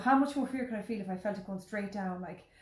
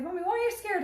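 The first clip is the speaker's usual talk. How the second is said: put-on higher, louder questioning kid; lightly voiced child; 11 semitones higher, 5 dB louder than usual. Child asking frightened mother on the plane, imitated questioning.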